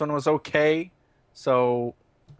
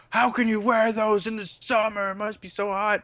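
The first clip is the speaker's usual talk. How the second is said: imitating incredulous people; 8 semitones higher than usual. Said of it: "and people say, like".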